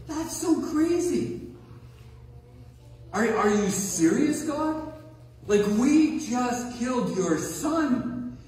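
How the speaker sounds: can't believe what's being asked; incredulous. Pretend.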